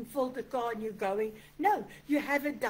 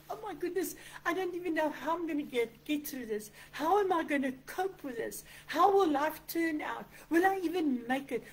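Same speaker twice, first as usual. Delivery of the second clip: higher-pitched, mildly anxious questioning; acted worry; 3 semitones higher than usual. Believer going through hard situations, worried. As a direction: imitate someone fretting over how to cope.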